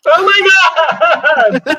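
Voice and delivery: high, loud, drawn-out shriek; startled shriek. Real, not acted. Player reacts to dark shape leaning out, startled shriek. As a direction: shriek it out in shock.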